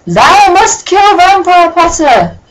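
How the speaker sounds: high, slow, loud mock-theatrical decree; Shakespearean villain. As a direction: declaim like a ham Shakespearean villain.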